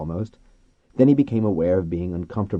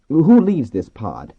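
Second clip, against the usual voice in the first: raised, higher, slow question; calling to dolphins; 7 semitones higher, 9 dB louder, slower than usual. A narrator's reading. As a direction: call it out slowly so creatures understand.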